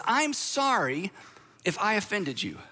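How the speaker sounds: hammed-up insincere apology; fake apology. Pastor mimicking a non-apology, mildly sarcastic. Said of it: "we say things like this".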